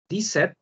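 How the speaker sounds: Dix-sept said diset as one word; Dix-sept run together as diset; French dix-sept. Shown as a demonstration. Teacher models French seventeen: Dix-sept joined as one word. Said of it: "Dice dix-sept. Una sola palabra".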